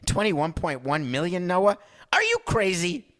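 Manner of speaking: high, rising disbelief; incredulous refusal. Acted. Exec to Noah over his asking price, incredulous. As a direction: balk in a climbing, high-pitched voice.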